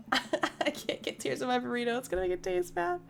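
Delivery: talking through laughter; laughing. Real, not acted. Tearful daughter joking about her burrito, laughing. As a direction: laugh while getting the words out.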